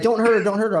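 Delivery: high-pitched mock plea; imitated pleading. Girlfriend stepping between them, imitated urgent pleading. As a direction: imitate someone urgently begging him off.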